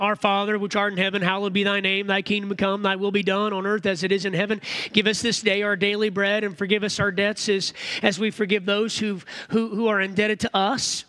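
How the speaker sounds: evenly pitched recital of a familiar prayer; rote prayer recitation. Acted. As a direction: recite it by heart in a steady run.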